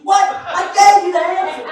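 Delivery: mock outrage at a bad grade; emotional parent. Dad sees his son's fifty on homework, comic indignation. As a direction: protest in disbelief, playing it for laughs. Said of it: "you're emotional about it".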